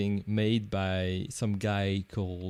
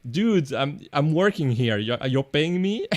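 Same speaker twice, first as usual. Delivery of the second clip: louder, higher retold complaint, rising to incredulity; mock infuriated; 3 semitones higher, 5 dB louder than usual. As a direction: imitate an infuriated crew member, indignant question at the end. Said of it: "It's so infuriating".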